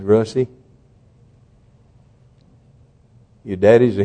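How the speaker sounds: put-on hushed, low, halting confession to a child; retold fatherly plea for forgiveness; tender apology. Retold tearful apology to his son.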